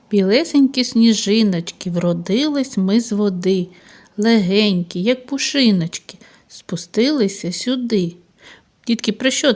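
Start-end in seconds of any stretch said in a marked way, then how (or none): 0.1-5.0 put-on gently recited children's verse; lightly sing-song verse; poem recital. 5.0-6.2 whisper. Acted. Whispered line within poem. 6.5-8.2 put-on gently recited children's verse; lightly sing-song verse; poem recital.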